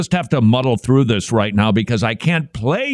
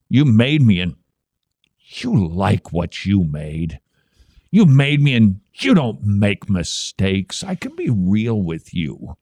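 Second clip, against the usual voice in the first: mock worship lyric reading. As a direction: read the lyrics with exaggerated sincerity. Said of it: "I'm just gonna read this".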